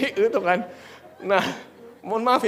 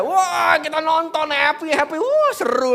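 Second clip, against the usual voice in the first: high, excited cheering; loud, high-pitched thrill; 8 semitones higher, 5 dB louder, slower than usual. Retold or imitated. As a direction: retell it with a burst of glee. Reenacts child's joy at circus.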